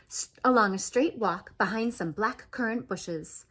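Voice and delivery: ordinary delivery, nothing marked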